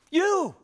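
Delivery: "You" çok yüksek perdeden, bağırır gibi; a single high, loud "You"; emphasized you. Shown as a demonstration. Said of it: "I wanna emphasize that".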